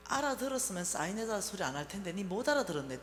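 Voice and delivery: mother's steady, falling rebuke; lightly voiced stern mother; stubborn mother. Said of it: "또 이러는 거예요".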